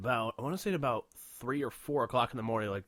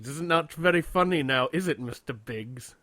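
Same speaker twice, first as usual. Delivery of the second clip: Bond villain; 2 semitones higher, 5 dB louder than usual. Pretend. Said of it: "like a James Bond villain".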